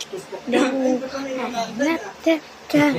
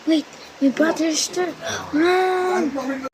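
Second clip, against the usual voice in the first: yelling while running away; 5 semitones higher than usual. Pretend. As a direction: shout the warning and flee. Fleeing in pretend game.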